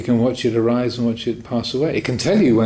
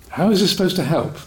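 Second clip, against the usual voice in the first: exasperated; 6 semitones higher than usual. Retold or imitated. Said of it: "So I thought".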